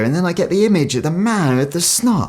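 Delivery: normal talking voice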